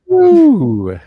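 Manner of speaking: very high, loud, drawn-out hello; squeaky high hello. Pretend. Echoing hello even higher, louder.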